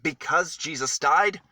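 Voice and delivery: high, loud joyful announcement; excited proclamation. A narrator's reading. Storyteller to children, announcing the torn curtain excitedly. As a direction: burst out with the wonderful news.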